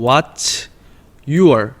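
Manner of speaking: favorite subject stretched very slowly, syllable by syllable; teacher spells out favorite subject slowly; slow pronunciation drill. Shown as a demonstration. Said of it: "발음 좀".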